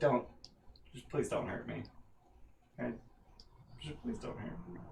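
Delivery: hushed, whispered pleading on the edge of tears. Game master voicing a man with mastiffs walking up behind him, pleading, a little teary. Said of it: "he's getting a little teary".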